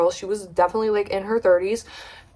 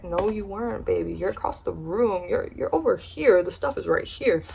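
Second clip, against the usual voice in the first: under-breath rebuttal; 7 dB quieter than usual. Retold or imitated. Muttered rebuttal to the woman.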